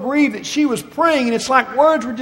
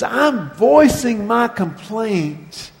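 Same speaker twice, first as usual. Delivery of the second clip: quiet confession; 2 semitones lower, 4 dB quieter, slower than usual. Retold or imitated. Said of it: "He says".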